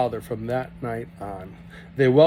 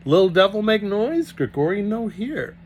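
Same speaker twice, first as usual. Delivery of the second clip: teasing Russian; 8 semitones higher, 4 dB louder than usual. Acted. Grigori teasing, voiced.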